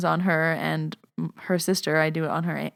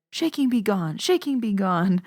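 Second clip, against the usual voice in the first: higher-pitched Lebanese granny incantation; grandma's Lebanese accent; 3 semitones higher than usual. Retold or imitated. Grandma banishing the shaking from her hand, Lebanese accent. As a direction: chant it as a comic command in an imitated Lebanese accent. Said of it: "it's hilarious the way she says it".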